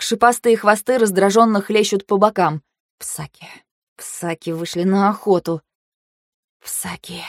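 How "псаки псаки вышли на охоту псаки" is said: hushed, near-whispered dread; quiet exhale. A narrator's reading. Heroine spotting the beasts on the hunt, breathed quietly. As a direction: breathe it out very softly. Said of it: "выдохнула я тихо".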